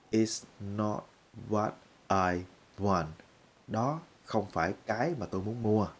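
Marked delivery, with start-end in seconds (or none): 0.1-3.1 slow, separated "It's not what I want."; slowly. Shown as a demonstration. Teacher telling beginners to speak slowly. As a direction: take it slow and apart. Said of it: "nói chậm chậm, từ từ".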